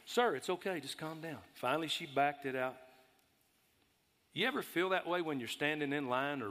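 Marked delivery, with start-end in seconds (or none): 0.1-1.4 soft calming voice, fading to much softer; soothing. Retold or imitated. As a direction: settle the man down gently. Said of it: "I said".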